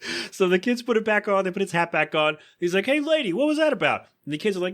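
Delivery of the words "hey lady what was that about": high, cartoonish indignation; squeaky snowman protest; pitched-up indignant snowman; mock indignant Frosty. Frosty confronting Lois.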